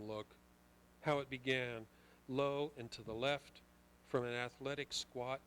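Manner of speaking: loud, forceful poetry reading; poem reading. Acted. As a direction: read it out with full force. Reads poem aloud.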